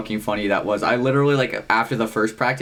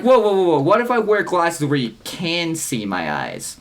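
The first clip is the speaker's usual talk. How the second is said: mock protest; 6 semitones higher than usual. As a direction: object urgently, as if halting someone. Retold protest to the band director.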